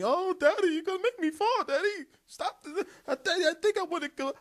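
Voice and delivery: put-on high, whiny child voice, fast at the end; little girl's voice. Dad imitating his daughter begging to stop, high and whiny.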